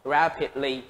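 "rapidly" stressed on RAP; first-syllable stress. Shown as a demonstration. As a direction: say "rapidly" with the weight up front on RAP. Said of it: "các bạn nhấn vào âm một".

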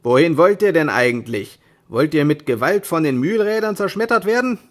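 loud, rough yell; millers shouting. Acted. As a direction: yell the insult across the water. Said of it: "schrien die Müller".

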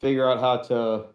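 muffled behind a mask; talking through a hot mask; inside a rubber mask. Real, not acted. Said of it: "it's hot in this mask".

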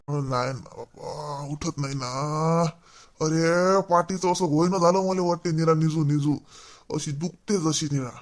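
put-on an old man aching, barely getting words out; weak and pained. Ailing old man complaining of back pain.

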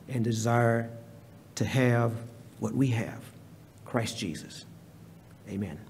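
earnest prayer, fading to a hush at the end; a preacher's prayer that settles into a hush. Acted. Pastor leads prayer.

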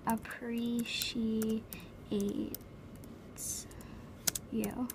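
very slow, syllable by syllable; drawn out. Acted. Advising a girl about guys, slowly drawn out. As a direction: stretch each syllable of "appreciates", pause before "you".

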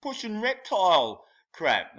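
high, mocking voice; squeaky sneer at the trans claim; mock quote. Mocking the fan with a high squeaky sneer. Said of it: "I said".

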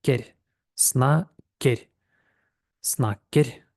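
"Сна" from below, then "керь" hopping up; jump up on керь. Shown as a demonstration. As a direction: split the syllables, springing up on "керь". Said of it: "а потім як підстрибуємо вверх".

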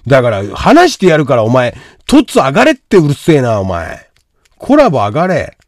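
loud, impatient scolding; exasperated ordering. Real, not acted. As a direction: order them onto the call, fed up. Ordering viewer to join the call.

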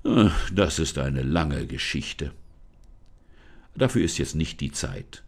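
low spirit voice, brushing it off; lightly voiced spirit sending her away; evasive spirit. Forest spirit hurries Lisa off, low and evasive. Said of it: "raunte die Stimme".

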